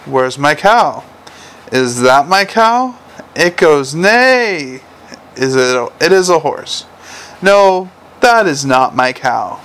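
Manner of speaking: slow picture-book voice with a long neigh; playful, stretched-out story reading; reading to children. A narrator's reading. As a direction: act out the animal book for a small child.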